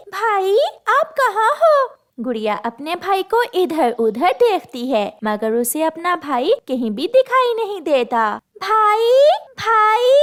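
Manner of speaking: put-on girl searching for brother; calling anxiously. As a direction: call out for a lost brother.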